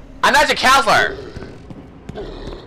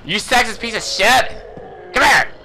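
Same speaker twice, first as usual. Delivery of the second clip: slow, yelled insult; angry shout; 4 semitones higher than usual. Real, not acted. Player yelling insults at the game enemy. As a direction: tell him off at full voice.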